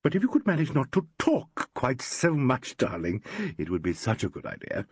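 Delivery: actress cooing. Acted. Carolyn's voice.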